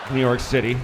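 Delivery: breathless shaken pilot announcement; out of breath. Retold or imitated. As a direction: announce it still panting. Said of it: "he's totally out of breath".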